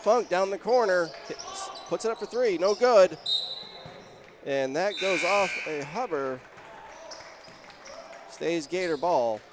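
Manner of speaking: punchy basketball call, lifting on key moments; live play-by-play. Real, not acted. Announcer tells listeners Button opts to shoot, live play-by-play. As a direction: call the action as it happens.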